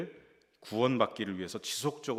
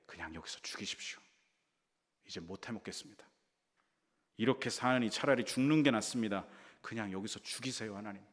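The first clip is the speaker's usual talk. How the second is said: defiant plea. Acted. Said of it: "그렇게 하나님 앞에 대들죠".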